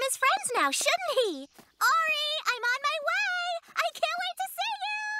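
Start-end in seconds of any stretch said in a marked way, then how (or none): 1.8-5.1 sing-out call, pitch climbing toward the end; eager calling out. Acted. Franny calling to Ari that she's on her way, eager calling out. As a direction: call ahead excitedly, stretching the last word.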